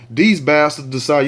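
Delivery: slow, weighted bastards; deliberate emphasis. Shown as a demonstration. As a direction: lean on bastards slowly. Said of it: "yes, bastards, that's what I said".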